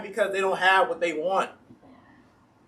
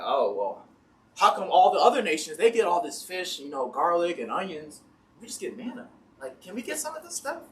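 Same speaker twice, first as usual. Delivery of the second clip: whiny complainers. Retold or imitated. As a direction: whine like a spoiled kid asking for snacks. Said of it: "They're like".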